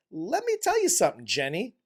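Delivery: high, quick mock scolding; mock confrontation. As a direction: call out the character in mock outrage. Mock confrontation with film character.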